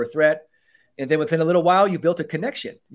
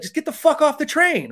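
high, mock exasperated yell; imitated irritated outburst; fed-up snap; 11 semitones higher than usual. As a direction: bark it like a tired cop at the end of a shift. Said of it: "you kinda wanna be like".

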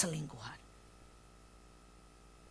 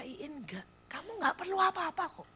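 high-pitched, gently reasoning with herself; coaxing self-talk; 9 semitones higher than usual. Retold or imitated. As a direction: act out talking yourself out of a purchase. Talks herself out of buying. (membujuk diri sendiri dengan nada tinggi)

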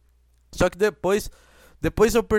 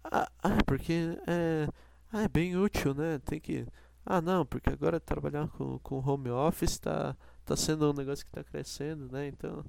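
unenthusiastic saleswoman; 3 semitones lower, 9 dB quieter than usual. Retold or imitated. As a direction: drone it like someone who doesn't want to be there. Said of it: "Ela tava assim, ó". (vendedora desanimada, voz baixa e arrastada)

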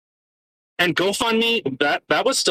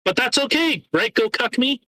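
sarcastic; 8 semitones higher than usual. Real, not acted. Sarcastic rant.

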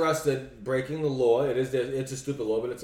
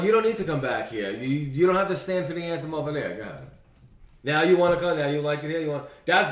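mock taunting remark. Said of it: "That would be my remark".

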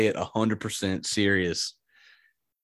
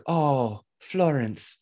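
put-on light Swedish accent, slightly raised pitch; 4 semitones higher, slower than usual. Exchange student consoling his upset host, light Swedish accent. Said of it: "says it in his Swedish accent".

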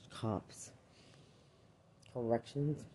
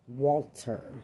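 a loud, insistent cry of the name; real angry shout; 2 semitones higher, 7 dB louder than usual. Real, not acted. Speaker insisting to accusers, shouting the name.

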